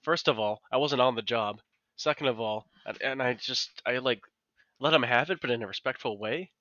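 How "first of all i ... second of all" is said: retold angry scolding. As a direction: scold him, half-reliving it. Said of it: "I'm like".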